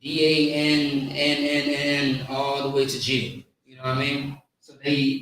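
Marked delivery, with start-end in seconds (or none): 0.0-3.5 "N N N" held out in one long stretch; expanded spelling. Shown as a demonstration. Teacher spelling out the slang, "N N N" stretched long. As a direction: draw out the "N N N" before the G. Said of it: "they expand the word".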